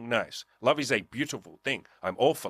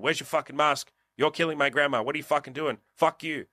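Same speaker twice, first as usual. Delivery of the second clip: mild mock yell; 5 semitones higher than usual. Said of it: "people yell at you".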